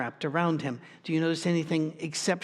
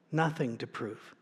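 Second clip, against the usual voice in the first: softer, drop the voice on "Nothing to prove"; quiet emphatic echo; 4 semitones lower, 7 dB quieter than usual. Real, not acted. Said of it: "echo of the previous line".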